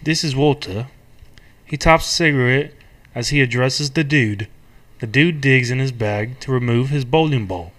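put-on English-accented script narrator; measured narration in a put-on English accent. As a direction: read stage directions in an English accent. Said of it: "you can be English, a narrator".

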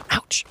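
sudden ouch of pain; stubbed toe. Real, not acted. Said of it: "I just stubbed my toe".

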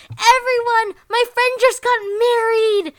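high mock-excited shout; excited announcement. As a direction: announce it to the whole room with glee. Pichit announcing to the room.

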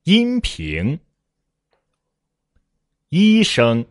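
阴 and 一 held high and level; read-after-me model. Shown as a demonstration. Teacher leading students in repetition, 阴 and 一 high and level. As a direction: pitch 阴 and 一 up high, long and steady. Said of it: "来，跟我读".

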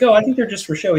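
high mock-clueless voice; playing dumb. She baits him about the machine guns, mock clueless. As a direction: imitate her doubting him, pitched well up.

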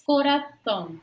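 CORAÇÃO as Spanish "corazón" with an interdental th; tongue between the teeth on the middle consonant of "coração"; Castilian th in "coração"; a singer. Retold or imitated. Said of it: "é só lembrar lá da música de um cantor".

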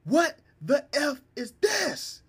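high, slow furious mock mother; angry mom. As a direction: shout it like a scolding mom. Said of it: "heard her across the house".

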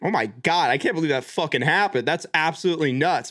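understated, amused disbelief at normal pitch; amazed with a grin. Retold or imitated. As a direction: imitate someone half-grinning in amazement. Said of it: "a little bit of a grin on their face".

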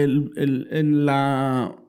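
garbled, glitchy alien-sounding voice. Real, not acted. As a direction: voice warped like an alien. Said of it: "Estás hablando de un alienígena".

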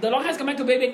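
slow, drawn-out wrestling mic call; The Rock promo. Retold or imitated. Podcaster reenacting his teenage Rock promo, slow. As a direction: deliver it slowly like a wrestler's promo. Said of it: "กู smell เกือบนาทีไง".

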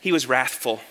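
understated, harmless delivery of "wrathful"; too nice. Shown as a demonstration. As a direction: say "wrathful" as if it were a pleasant word. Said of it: "like it's just some nice word".

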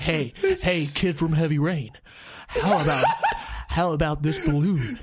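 creepy bad American accent; a hint of odd American accent; weird American accent. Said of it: "the weirdest American accent I've ever heard".

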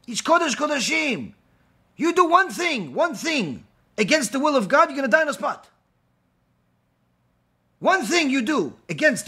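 frightened father warning his son; fearful father's warning. Retold or imitated. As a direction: warn him urgently. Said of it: "He says".

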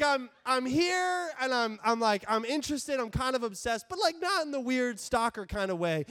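lightly acted obsessed admirer; slightly hammed-up eager fan; over-keen fan. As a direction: insist on harmless obsession, a bit too keenly.

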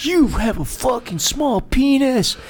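high, slow mocking jab; angry insult. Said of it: "And she's like".

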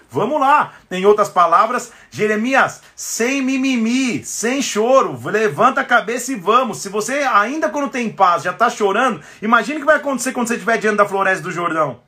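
rally them to get up; booming motivational speech. Acted. Preacher pushes listeners to rise.

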